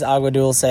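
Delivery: Dulce said as DUL-say, with an s; correct pronunciation. Shown as a demonstration. Hiker giving the town's real name, Dulce as DUL-say. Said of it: "but it is".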